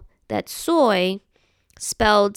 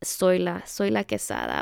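proud name declaration; 5 dB quieter than usual. Pretend. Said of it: "And I'm like".

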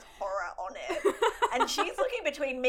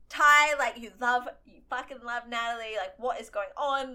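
mock reproach; 2 semitones higher, 3 dB louder than usual. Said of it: "I was sitting there going".

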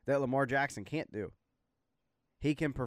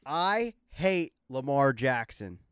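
forced calm; 3 dB louder, much slower than usual. Real, not acted. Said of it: "I'm gonna be as calm as I can be".

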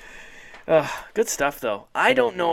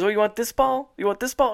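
bully taunting; 9 semitones higher, 4 dB louder than usual. Retold or imitated. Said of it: "he goes".

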